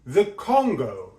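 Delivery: slow, falling down on Congo; going down. Shown as a demonstration. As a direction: drop the melody to finish. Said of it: "He goes down".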